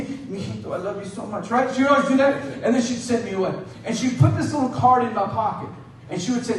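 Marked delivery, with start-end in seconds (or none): 0.0-1.5 soft, gentle imitation of a loving mother; quiet motherly affection, acted; tender mom. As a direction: murmur it like a mom saying goodbye. Mom kissing child goodbye.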